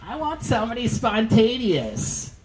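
put-on high, slow airy girlfriend voice; mock dreamy girl voice. Comic mocking his date's wish, high and slow.

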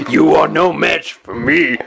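Macho Man style trash talk; brash wrestler promo voice. Pretend. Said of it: "that sounds like a wrestler".

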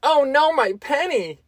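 high squeaky dismay, "Oh no, my penny!". Retold or imitated. To coworkers after dropping a penny, high mock dismay. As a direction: pitch it way up like a tiny tragedy. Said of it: "and out loud, I just go".

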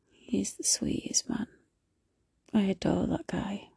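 soft, whispered adoration; hushed, loving aside; tender whisper. Real, not acted. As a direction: whisper it fondly, almost to yourself. Gushing about boyfriend.

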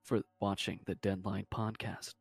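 podcast announcer read; promo voice. Acted. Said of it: "let me do a promo for you real quick".

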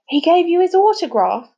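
high-pitched incredulous question; shocked. A narrator's reading. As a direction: react in disbelief, voice shooting up.

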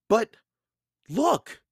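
high, loud eager call; excited girl. A narrator's reading.

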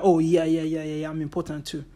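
mock someone who has to be heard; hammed-up eager interrupter; mocking self-important interrupter. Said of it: "show that".

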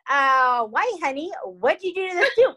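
high, rising mock husband voice; suspicious husband. Husband asking his wife about the soup, high mock suspicion. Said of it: "And he goes".

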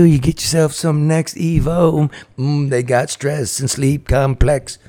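lively sponsor read with punchy questions. Acted. Host pitches Next Evo to listeners, upbeat ad read. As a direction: sell the product to listeners.

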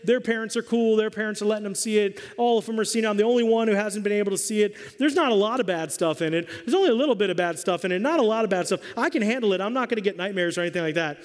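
mild imitation of a kid nagging his mom. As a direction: beg and plead like an eight-year-old. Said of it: "the kid just started nagging".

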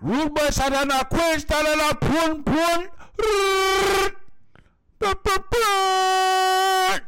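high, loud Jamaican dancehall toasting; Jamaican accent. Pretend. Jamaican rude boy voice, dancehall.

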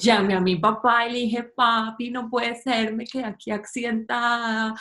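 mimicking a posh Caracas girl, chewy jaw; lightly voiced posh Caracas girl calling her dad; cuica Caracas accent. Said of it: "Así habla Carolina Herrera".

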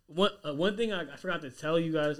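tripping over words, stuttering; stammering, can't get it out. Real, not acted. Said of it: "I'm stuttering right now".

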